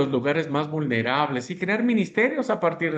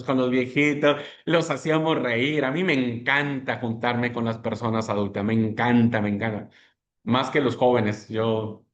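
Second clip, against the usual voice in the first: ordinary delivery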